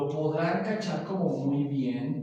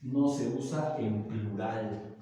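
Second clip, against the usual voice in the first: slow emphasis; 6 semitones lower, 4 dB quieter, slower than usual. Shown as a demonstration. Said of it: "Qué quiere decir eso".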